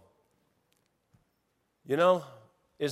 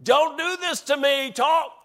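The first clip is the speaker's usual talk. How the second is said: laughing plea; 11 semitones higher, 8 dB louder than usual. Retold or imitated. Pleading with crying caller, laughing.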